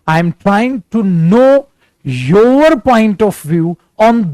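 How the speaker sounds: very slow, word by word English; slow teaching voice. Shown as a demonstration. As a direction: spell it out slowly for learners. (धीरे-धीरे, शब्द-शब्द बोलना)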